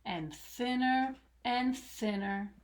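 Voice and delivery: put-on rhythmic read-aloud to children; lilting picture-book reading; storybook narration. A narrator's reading. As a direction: tell it like a bedtime story.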